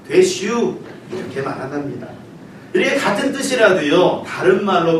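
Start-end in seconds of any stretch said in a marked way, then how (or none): 0.1-0.8 one short clipped Chungcheong word; a hint of Chungcheong dialect, very brief. Shown as a demonstration. 충청도 사투리로 아주 짧게. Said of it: "충청도에서는 굉장히 짧습니다".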